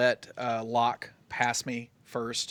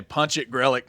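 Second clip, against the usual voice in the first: bold command; 7 dB louder than usual. Acted. Orders the driver to flee.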